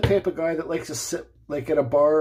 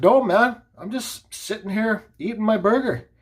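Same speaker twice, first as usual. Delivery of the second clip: protesting; 5 semitones higher than usual. Retold or imitated. Acts out his protest in quarrel.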